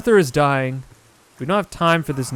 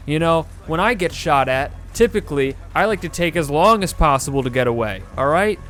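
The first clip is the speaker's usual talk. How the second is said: sarcastic. Real, not acted. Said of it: "I'm getting so mad at this game".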